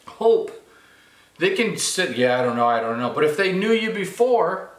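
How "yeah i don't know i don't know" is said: doubtful listener. Acted. Imagined doubtful listener answers.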